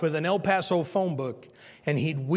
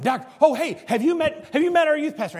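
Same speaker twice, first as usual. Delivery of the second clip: put-on cheerful old patient; 10 semitones higher, 5 dB louder than usual. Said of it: "The doctor come in".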